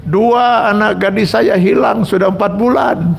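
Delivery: high, agitated protest; panicked outburst. Retold or imitated. Father whose daughters vanished protests to the kiai, panicked and high. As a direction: burst out in desperate panic. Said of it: "ada panik, Pak, stres".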